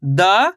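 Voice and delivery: द held long with an open "aa" sound, rising; letter demonstration. Shown as a demonstration. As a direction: sound out द slowly as "daa". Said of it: "अब उच्चारण किस तरीके से करेंगे".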